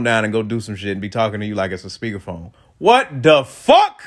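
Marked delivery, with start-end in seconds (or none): 2.8-4.1 incredulous laughing outburst. Retold or imitated. Caller put phone down.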